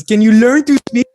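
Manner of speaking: loud, high quoted demand; mock exasperated yell. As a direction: belt it out like an exasperated challenge. Re-enacts iconic exasperated question from clip.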